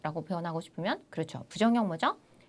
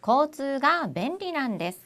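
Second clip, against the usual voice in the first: slow example reading; 5 semitones higher, 4 dB louder, slower than usual. Shown as a demonstration. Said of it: "한번 예문 읽어볼까요".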